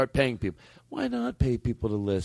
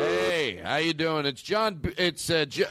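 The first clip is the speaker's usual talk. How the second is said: higher, acted phone greeting; pretend sponsor's caller; 5 semitones higher, slower than usual. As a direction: play the company man starting a voicemail. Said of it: "Let me try again".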